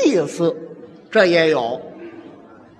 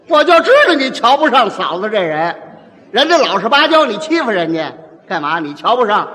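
loud, higher, picking a fight; stirring up the fight; 4 semitones higher, 4 dB louder than usual. Acted. Male peacemaker sides with wife, loud provoking shouts. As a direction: shout him down and side with her. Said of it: "哪有这样劝的".

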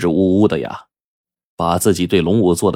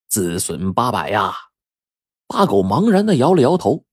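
sage fortune-teller lecturing. Acted.

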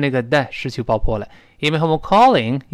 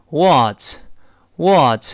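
American "what", mouth opened wider; slow, drawn-out American "what"; American pronunciation; 3 dB louder than usual. Shown as a demonstration. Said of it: "美式呢口型变得大一些".

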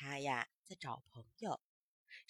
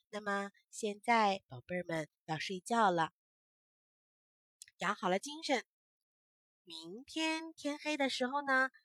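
put-on bedtime talk to children; 2 semitones lower than usual. Mother addresses children at bedtime.

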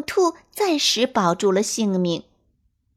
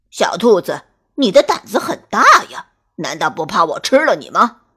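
lower, louder teasing wolf king; menacing wolf king; 3 semitones lower, 6 dB louder than usual. Acted. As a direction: test the rabbit's courage.

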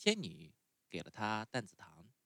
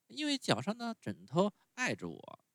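put-on much higher, whiny little boy; puppet boy voice; 12 semitones higher than usual. A narrator's reading. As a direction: sulk like a spoiled child refusing medicine. Pinocchio voiced in story.

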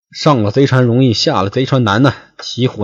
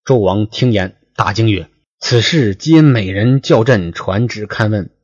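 说书人朗读古文; classical story reading. Acted. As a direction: read the old novel aloud like a storyteller. Reads classical novel text aloud.

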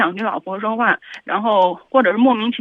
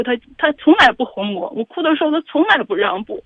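real tearful upset, voice pitched up; crying; 4 semitones higher, 4 dB louder than usual. Real, not acted. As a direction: plead through tears, higher and louder. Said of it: "那你能不能不哭". (带着哭腔委屈地说)

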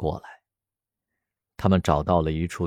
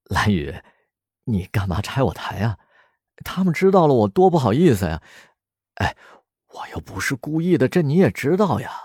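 laughing, embarrassed; 5 semitones higher than usual. Acted. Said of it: "石龙笑着对蓝雨说".

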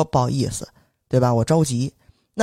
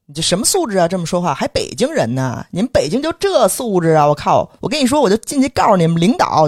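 mildly heated mock tirade, pitch climbing; retold scolding; 3 semitones higher than usual. Man berating a Beijinger after the collision, indignant imitation. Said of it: "上来就骂我说".

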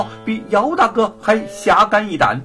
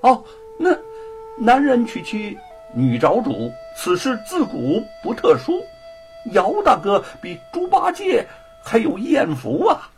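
teasing laugh; 7 semitones higher than usual. A narrator's reading. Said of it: "笑着说".

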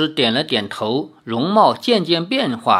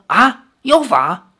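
受惊拖长的喊叫，更高更响; 慢慢惊呼出来; 5 semitones higher, 4 dB louder, slower than usual. Acted. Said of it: "大惊". (惊恐地大喊)

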